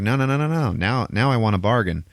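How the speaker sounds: rapid-fire refusals, then insisting; lightly acted stubborn hero; Doctor Strange. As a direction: cut the foe off and press the deal. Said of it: "And he's like".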